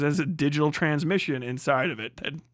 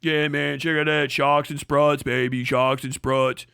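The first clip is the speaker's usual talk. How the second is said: mock bro. Mocking truck bro boasting.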